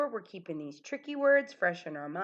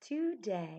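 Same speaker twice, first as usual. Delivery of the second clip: put-on teeny tiny, hushed little ant voice; 5 dB quieter than usual. Holding up a tricky word, showing how to say it like an ant: tiny ant voice. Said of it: "we want to make our voice really small".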